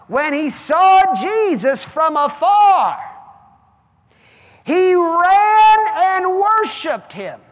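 slow, loud shout on saw and ran; preaching shout. Acted. Preacher crying the verse to the church, slow loud shout. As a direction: hammer each word of the verse.

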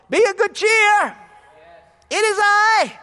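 high, loud reassurance; Jesus calling. Acted. Jesus calls to Peter at sea, high and reassuring. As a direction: call out across the water.

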